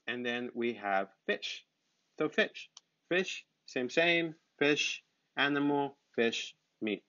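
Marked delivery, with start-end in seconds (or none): 1.3-7.0 raised pitch for a drill; chirpy classroom drilling; high teacher voice. Shown as a demonstration. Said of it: "teacher drilling word".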